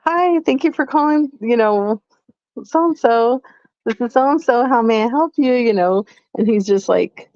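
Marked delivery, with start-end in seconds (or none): 0.0-5.5 bright, somewhat higher receptionist greeting; customer service voice. Retold or imitated. Wife demonstrating her work phone voice, pleasantly higher. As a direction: sound polite and sweet for a caller. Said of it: "I get paid to sound nice".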